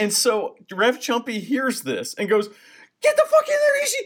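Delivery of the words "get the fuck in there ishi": shrill, very high, frantic screaming. After a warning about shows getting shut down, Rev Chumpy yells at Ishi: imitating Rev Chumpy screaming. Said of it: "And starts screaming".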